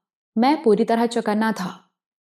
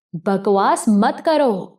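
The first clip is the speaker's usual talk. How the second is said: slow, mild mock shout; understated acted yell; much slower than usual. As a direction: bark the order to stay put. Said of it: "رینو چیخ کر بولی".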